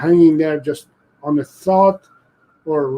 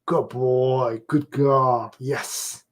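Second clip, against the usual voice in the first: soft praise; 3 semitones lower, 4 dB quieter, much slower than usual. Shown as a demonstration.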